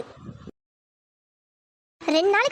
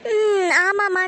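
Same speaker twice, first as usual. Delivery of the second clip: tearful; 4 dB louder, much slower than usual. Acted. Mother grieving for son.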